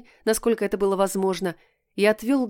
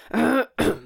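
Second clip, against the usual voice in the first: theatrical throat clearing; 4 semitones higher than usual. A narrator's reading. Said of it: "Кот театрально откашлялся".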